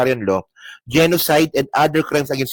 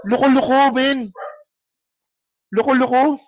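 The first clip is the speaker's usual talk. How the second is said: scoffing jeer; 8 semitones higher than usual. Real, not acted. Scoffing at the senator's claim.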